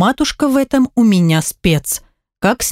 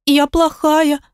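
put-on higher, small child pleading to her mother; higher child's voice, hurt and small; little girl's voice; 7 semitones higher, slower than usual. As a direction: play a guilty little girl blaming herself. Daughter blames herself.

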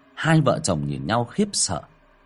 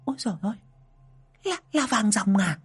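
startled cry; 11 semitones higher than usual. A narrator's reading. Startled wife seeing gold in the girl's hand, rising to a cry. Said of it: "giật mình kêu lên".

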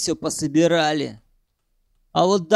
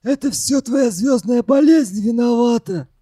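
higher-pitched angry accusation; spitting angrily; 6 semitones higher, 4 dB louder than usual. A narrator's reading. Arkadich blaming the tearful boy, spiteful. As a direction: hurl the blame at him with venom. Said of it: "Зло сплюнул Аркадич".

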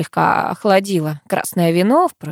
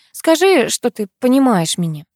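higher, earnest plea; pleading; 5 semitones higher than usual. Acted. Karina begs Kir to understand her, earnest plea. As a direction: beg him to understand. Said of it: "взмолилась я".

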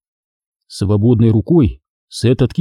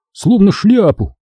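ordinary delivery, nothing marked

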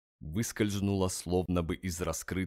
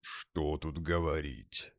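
grumbling; 3 dB quieter, slower than usual. Acted. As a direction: grumble it reluctantly. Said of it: "проворчал Тёмный". (ворчливо)

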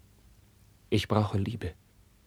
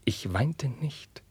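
higher and slow, each word stretched; slow, raised; 5 semitones higher, much slower than usual. Acted. Carlos insisting to Roderich he held back tears, high and slow. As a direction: lift it high and drag it out. Repeated vow of not crying.

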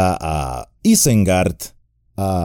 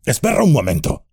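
exclaiming; 7 semitones higher, much faster than usual. A narrator's reading. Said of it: "exclamó Gimli".

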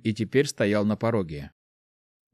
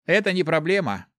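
lively; 7 semitones higher than usual. A narrator's reading. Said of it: "живо отозвался Март".

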